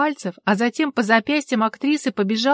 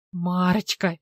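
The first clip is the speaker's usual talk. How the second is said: mocking echo of his helpless call; sneering mimicry of the call; 2 semitones lower, slower than usual. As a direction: parrot him to make fun of him. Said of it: "передразнила Алла".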